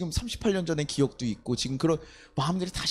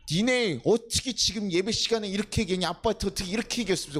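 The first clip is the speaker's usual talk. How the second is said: mildly acted telling-off; imitated scolding; 2 semitones higher than usual. Wife scolding the kids over ramen, imitated mild scolding. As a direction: scold the kids like an exasperated mother, lightly. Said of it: "혼내면서 라면을 사주고 온 거예요".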